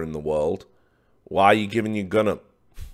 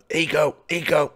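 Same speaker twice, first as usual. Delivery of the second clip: calling out; 7 semitones higher, 3 dB louder than usual. Retold or imitated. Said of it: "Pimp's like".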